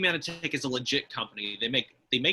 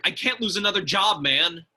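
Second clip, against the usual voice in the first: whiny near tears; 3 semitones higher, 5 dB louder than usual. Acted. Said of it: "Bruh, stop crying".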